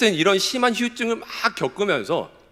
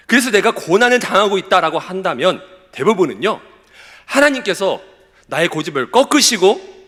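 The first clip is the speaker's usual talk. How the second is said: raised, projected sermon voice; emphatic preaching; 4 semitones higher, 5 dB louder than usual. Real, not acted. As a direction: drive the message home to a congregation. Preaches to the congregation with force.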